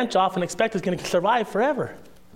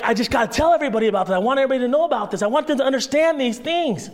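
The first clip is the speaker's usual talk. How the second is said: eager new believer; 4 semitones higher, faster than usual. Retold or imitated. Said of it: "and you were like".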